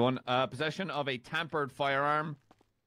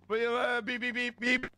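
mouth beeps; 7 semitones higher, 4 dB quieter than usual. Pretend. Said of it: "I'm breaking up".

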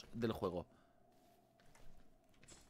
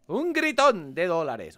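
mock announcer; slower than usual. Repeats announcer bit.

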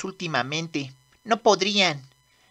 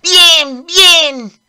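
cheering; 2 semitones lower, 5 dB louder, much slower than usual. Acted. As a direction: urge them on, thrilled. Cheering the run.

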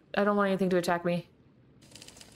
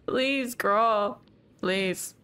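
scared pleading; much slower than usual. Real, not acted. Begging while fleeing monster.

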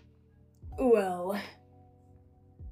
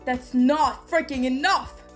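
emphatic demand; 5 dB louder than usual. Acted. Boss pushing fighter for more.

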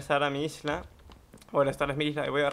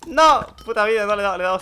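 loud, high cry of dismay; frustrated yell; 6 semitones higher, 10 dB louder than usual. Real, not acted. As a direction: yell at the missed shot. Misses a shot. (grito de frustración)

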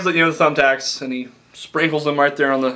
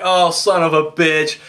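slow, pained mock groan of sympathy; mock wince; slower than usual. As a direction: feel the tacks and drawl it out. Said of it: "And I'm just like".

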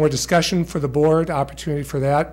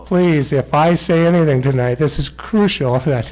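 louder, pressing each point home; emphatic insistence; 4 dB louder than usual. Real, not acted. Superintendent correcting the board, firm and emphatic. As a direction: make sure nobody misreads you.

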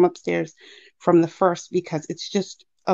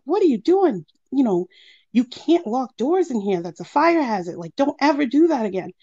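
higher-pitched, mildly cross telling-off; imitated scolding mother; 6 semitones higher than usual. Mom scolds child for locking the door, mock scolding. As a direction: act out a parent's reprimand.

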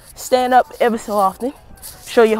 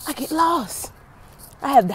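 laughing; 6 semitones higher, 5 dB quieter than usual. Real, not acted. Admits getting lost on walk, laughing through words.

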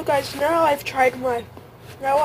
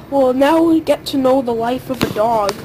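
loud announcement; 6 dB louder than usual. Real, not acted. About to eat dog food.

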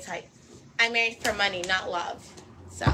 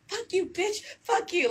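higher, snapping mock insult; aggressive comeback; 9 semitones higher than usual. Showing her aggressive side to haters, a mock snap. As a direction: throw it back at them with attitude. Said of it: "aggressive side where I'm like".

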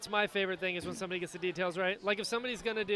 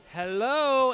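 louder, higher parrot hello; raised, drawn-out imitated parrot call; parrot getting insistent; 4 semitones higher, 8 dB louder than usual. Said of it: "and it'd get more".

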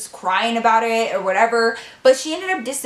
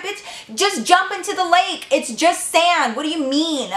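sassy dismissal; 6 semitones higher than usual. Retold or imitated. Talking back to Lisa.

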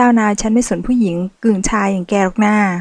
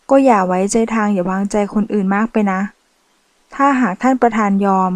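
serious. Acted. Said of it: "บอกด้วยน้ำเสียงจริงจัง".

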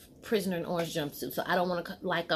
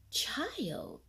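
whispered; 8 semitones higher, 6 dB quieter than usual. Real, not acted. Telling how the friend lied about her kids, whispered. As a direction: let the last word fall to a whisper.

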